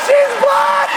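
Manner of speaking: very high, loud hysterical squeal; shaking with laughter. Acted. Colleague repeats the reveal from the floor, hysterical laughing squeal. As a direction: squeal it out, barely able to speak. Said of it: "he is shaking with laughter".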